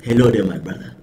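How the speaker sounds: put-on African accent; lightly acted African accent. Shown as a demonstration. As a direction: greet someone in a mock African accent. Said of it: "It's the African accent".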